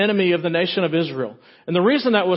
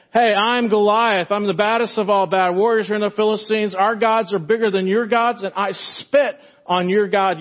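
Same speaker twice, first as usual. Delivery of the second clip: booming giant taunt; 4 semitones higher than usual. Acted. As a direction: boom it out like a bragging giant. Giant taunting Israel again.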